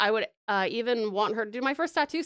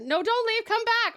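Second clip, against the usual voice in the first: mock call; 13 semitones higher, 6 dB louder than usual. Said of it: "that's very dark dialogue".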